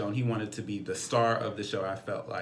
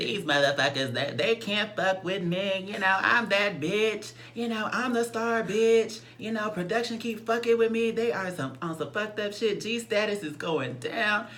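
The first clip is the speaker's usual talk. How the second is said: 10 semitones higher than usual. Retold or imitated. Retelling a castmate's angry live, mocking impersonation. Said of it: "I'm gonna talk in his voice".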